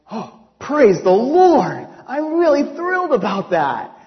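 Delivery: thrilled. Retold or imitated. Hears a check is coming.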